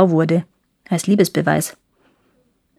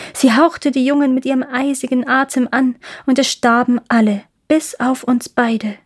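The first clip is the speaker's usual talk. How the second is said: leicht angedeutete Taubenstimme, etwas höher; lightly voiced wood pigeons telling what they saw, slightly raised pitch; erzählende Waldtauben; 4 semitones higher than usual. (leicht gespielte Waldtauben, die berichten)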